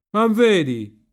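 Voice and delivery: high, loud cry; shouting. A narrator's reading. Riccetto points out the drowning swallow, high loud shout. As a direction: cry out to make them look. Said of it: "gridava il Riccetto".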